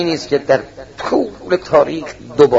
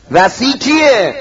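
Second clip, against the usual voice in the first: raised questioning call; 6 semitones higher, 4 dB louder, much slower than usual. Retold or imitated. The visitor asks who the heir is.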